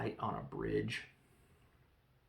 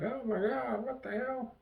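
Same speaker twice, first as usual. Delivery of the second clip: mock shock; 12 semitones higher than usual. Bond hanging from a rope.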